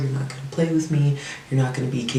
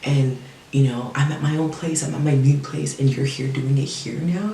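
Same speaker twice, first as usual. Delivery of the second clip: crying plea; 3 semitones higher than usual. Retold or imitated. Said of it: "I'm screaming and I'm crying".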